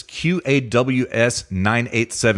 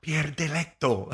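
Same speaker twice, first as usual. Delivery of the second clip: Italian accent; 3 semitones higher, 9 dB quieter, slower than usual. Shown as a demonstration. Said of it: "I'll work on it".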